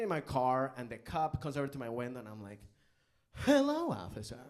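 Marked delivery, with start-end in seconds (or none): 3.5-4.4 high, loud put-on American accent; fake American accent. Greeting the traffic cop, a hammed-up American accent. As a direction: overdo a stiff American accent. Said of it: "I'm gonna use my American accent".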